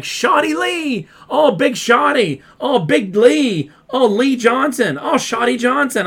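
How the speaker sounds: lightly voiced gushing announcer; Excalibur. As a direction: drag out each name like an excited commentator. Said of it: "Excalibur's like".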